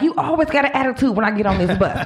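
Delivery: lightly voiced bus passenger telling off the driver; sassy read. Passenger reading the rude bus driver, mock sass. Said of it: "She was reading her".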